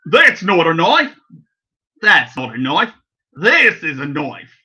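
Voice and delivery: Australian accent. Shown as a demonstration. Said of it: "Like this".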